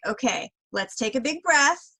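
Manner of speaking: lightly voiced nanny encouragement; nanny coaching a child. Nanny to an upset child, gently acted encouragement. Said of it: "I used to be a nanny".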